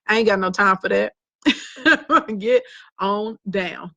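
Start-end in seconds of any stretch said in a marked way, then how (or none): 2.4-3.9 "Get on down" stretched slowly, each word long; slow, drawn out. Shown as a demonstration. To an unfollowing viewer, "Get on down" said slowly. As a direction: drag out "Get on down" for emphasis. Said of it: "just like that".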